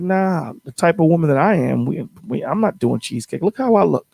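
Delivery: playing the picky date turning her nose up; mock diva refusal. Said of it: "she's like".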